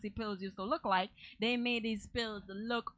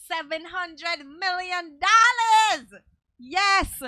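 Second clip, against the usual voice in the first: slow, louder, much higher hype; excited; 7 semitones higher, 12 dB louder, much slower than usual. Real, not acted. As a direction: stretch out the big number in awe. Hyping the jackpot, loud and slow.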